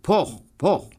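knocking sound. A narrator's reading. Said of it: "klopfte ... ganz laut".

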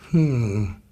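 low, doubtful "hm"; pondering hum. A narrator's reading. Zookeeper puzzled by the animals' complaints, humming low. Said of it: "machte der kleine Zoowärter".

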